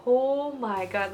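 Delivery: drawn-out, awed exclamation; slow, stunned reaction; imitated shock. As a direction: stretch the first word in mock amazement. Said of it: "very, very surprised and a little bit shocked".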